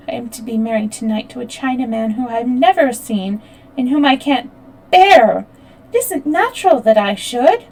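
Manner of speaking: a hint of a distressed bride-to-be, rushing; upset young girl. The half-white girl's outburst.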